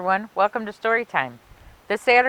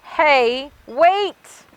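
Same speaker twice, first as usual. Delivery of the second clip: much higher, louder call out; urgent interruption; 6 semitones higher, 6 dB louder than usual. Acted. Helper calling Frankenstein back before he leaves, high urgent cry. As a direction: squeal it to stop him.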